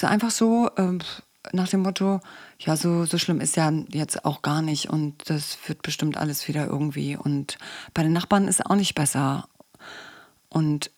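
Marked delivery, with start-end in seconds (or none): 2.6-9.5 low, understated self-soothing; mildly mumbled mock reassurance, pitched down; glossing over. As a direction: play it down half-heartedly. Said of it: "das ist Schönreden".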